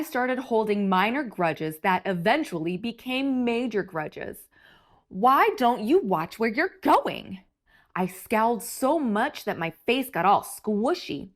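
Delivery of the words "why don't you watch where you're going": grumpy snap. Acted. Grumpy grape snaps at someone.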